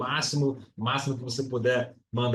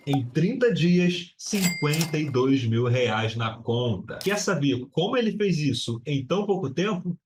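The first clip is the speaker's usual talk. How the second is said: dramatic teaser voiceover. Acted. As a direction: sell the success story like a trailer. Dramatic teaser intro read.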